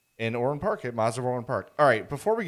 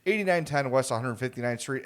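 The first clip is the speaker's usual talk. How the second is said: wrestling promo. Pretend. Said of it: "This is a wrestling promo now?".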